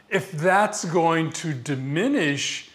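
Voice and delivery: mildly indignant quote, drawn out slowly; visibly angry executive. Retold or imitated. Interviewee quotes an executive guarding company sales, mildly angry. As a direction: retell the executive's objection, leaning slowly on key words. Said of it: "he's kind of visibly angry".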